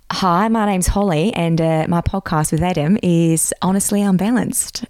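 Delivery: impression of an Australian podcast host; Australian accent. Shown as a demonstration. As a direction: introduce yourself in a mock Australian accent. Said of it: "Do Australian".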